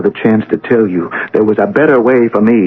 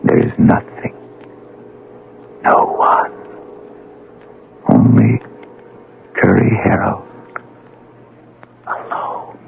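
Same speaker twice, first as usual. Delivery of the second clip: hushed whisper. Acted. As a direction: drift off into the emptiness. Alone in timeless void.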